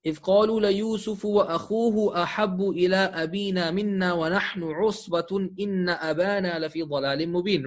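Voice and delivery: fast, continuous verse recitation; measured Arabic reading, moving briskly; Quran recitation. Acted. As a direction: recite the Arabic verse in one flowing run. Recites the verse before translating.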